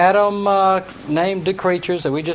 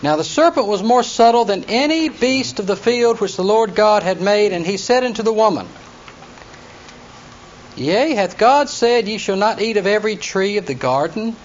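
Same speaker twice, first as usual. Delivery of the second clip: raised, measured Bible-reading voice; scripture reading; 3 semitones higher than usual. Acted. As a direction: read the verses out formally to the class. Reads serpent scene aloud.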